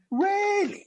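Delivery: very high, drawn-out mock doubt; exaggerated disbelief. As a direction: stretch her sceptical question up high. She doubts him a second time.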